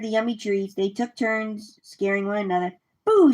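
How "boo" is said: high, sudden boo; quick storybook jump-scare shout; playful shout. A narrator's reading. Leslie scares friends from behind a tree, shouted. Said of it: "shouted Leslie".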